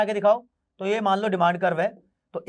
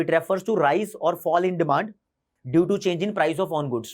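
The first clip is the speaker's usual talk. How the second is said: very slow, word by word, for notes; slow dictation; 2 semitones lower, much slower than usual. Shown as a demonstration. Teacher dictating the definition to students, very slow. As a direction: spell out the definition slowly so students can write.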